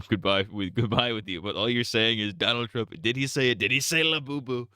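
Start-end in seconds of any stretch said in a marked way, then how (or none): 2.3-4.7 lightly voiced Trump asking; Trump impression. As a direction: ask it like old Trump. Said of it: "I would be saying it in Trump's voice".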